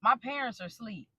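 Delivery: softly imitating a hushed reply; gone quiet. Husband excusing himself on the phone, quiet imitation. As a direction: drop the volume, as he did. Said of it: "he gets quiet and he's like".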